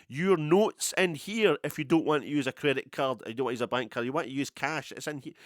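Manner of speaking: sign's announcer voice. Pretend. The sign calling out to shoppers, in a loud mock announcer voice. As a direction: ham up the sign's shouted instructions.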